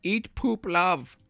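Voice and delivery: high sing-song parody of the title; mock sing-song. Poking fun at the opponent's story with a high spoof.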